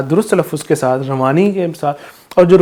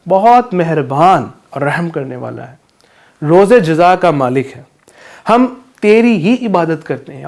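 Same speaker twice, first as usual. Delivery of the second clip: reading translation; 3 dB louder than usual. Shown as a demonstration. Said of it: "ترجمہ".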